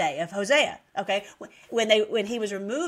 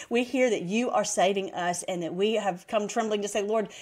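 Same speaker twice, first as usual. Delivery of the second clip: earnest, flowing spoken prayer; closing prayer; 4 semitones lower than usual. Real, not acted. Preacher thanking the Lord for his promise, earnest prayer. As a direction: pray aloud in a steady, even stream.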